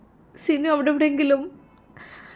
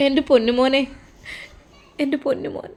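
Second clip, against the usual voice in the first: mother's tearful lament; weeping endearment, trailing away; crying. Acted. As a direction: sob it out, fading on the second call. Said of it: "വേണ്ട ഉമ്മ, കരയണ്ട".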